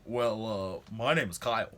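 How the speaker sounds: a hint of a hesitant nerdy guy, rising at the end; lightly voiced shy introduction; imitating Kyle. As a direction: stretch out the well, then say the name. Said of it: "this is exactly what he did".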